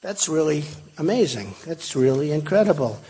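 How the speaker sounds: softly murmured wow; hushed amazement. Retold or imitated. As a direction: recall it under your breath, quietly impressed. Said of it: "and I said".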